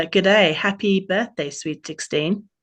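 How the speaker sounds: a self-mocking stab at an Australian accent; Australian accent, hammed up a little; cheerful Australian lifeguard greeting, light Australian accent; bad Australian accent. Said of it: "terrible Australian accent I'm about to do".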